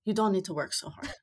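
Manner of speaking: a quick, lightly put-on German accent; badly done German trainer accent. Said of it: "in whatever terrible accent".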